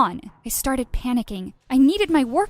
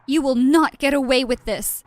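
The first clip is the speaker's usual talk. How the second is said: shouted threat; 2 semitones higher, 5 dB louder than usual. Acted. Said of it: "video of me shouting at reporters".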